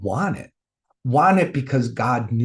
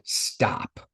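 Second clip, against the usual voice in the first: soft, low, hushed command; gentle inner voice; 4 semitones lower, 7 dB quieter than usual. Retold or imitated. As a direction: hush it gently, almost a whisper. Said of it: "I heard this gentle voice inside of me".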